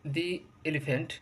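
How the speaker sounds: দি elephant with দি as "dee"; long "dee" gliding into the vowel. Shown as a demonstration. Teacher giving a vowel example, দি as "dee". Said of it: "তখন উচ্চারণ হবে দি".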